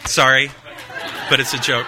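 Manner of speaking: laughing apology. Real, not acted. Laughs after a derogatory joke.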